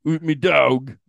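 slow, high-pitched mock Cockney; Shohei Ohtani as Cockney. Star recalls his old team, hammed-up Cockney. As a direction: stretch each phrase in broad Cockney. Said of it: "like, Cockney British".

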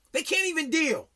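high, whiny mock of fragile kids. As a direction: whine it like a helpless teen. Mocking kids who can't cope.

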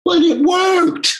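high, slow, shouted triumph; triumphant. Real, not acted. Proving the doubters wrong, a high triumphant shout. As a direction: crow it out. Triumphant punchline about the bandmate.

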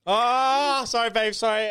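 sweet phone voice. Real, not acted. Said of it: "answer every phone call like that?".

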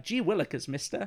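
put-on high, chirpy golly-gee kid voice; lightly voiced corny fifties teen; wholesome 1950s kid. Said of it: "It's very like".

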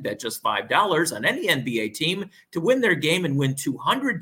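upbeat sponsor ad read. Acted. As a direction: sell it like a radio spot. Reads a sportsbook ad.

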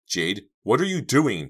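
high, loud, startled question; cried out. A narrator's reading. Girl shocked by friend's move, crying out. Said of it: "Dina cried".

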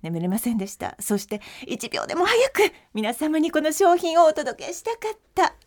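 bright, dramatic sales pitch; TV shopping host. Pretend. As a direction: present the product like a late-night shopping host. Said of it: "じゃあいいですか？".

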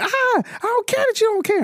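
high falsetto imitation of a screaming kid; hammed-up wail of an upset child; mock child yell. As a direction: play the yelling boy, way up high. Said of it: "the same yell comes by".

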